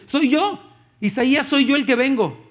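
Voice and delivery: voicing Jesus. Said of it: "Jesús dice".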